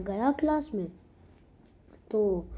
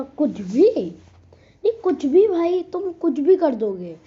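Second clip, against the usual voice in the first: mock indignant protest; 2 semitones higher, 5 dB louder than usual. Retelling his protest to accuser.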